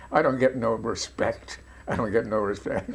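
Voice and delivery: lightly done Roger Dangerfield catchphrase, a touch of New York Yiddish comic; a hint of the self-pitying stand-up comic's complaint; Roger Dangerfield impression. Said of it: "this comic ... was Roger Dangerfield".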